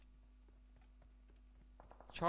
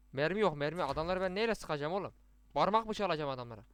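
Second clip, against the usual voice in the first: louder, complaining to the team about no ammo; frustrated yelling; 6 dB louder than usual. Real, not acted. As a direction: grumble loudly at the squad. (sinirli bağırış)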